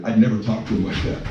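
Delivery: breathless from excitement; out of breath. Real, not acted. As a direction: talk while short of breath. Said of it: "I'm so out of breath".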